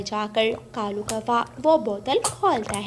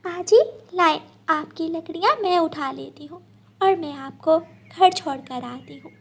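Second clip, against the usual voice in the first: put-on helpful girl; 5 semitones higher than usual.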